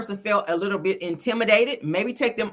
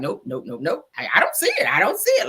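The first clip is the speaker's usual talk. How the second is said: mock juror denial. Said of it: "you sitting there like".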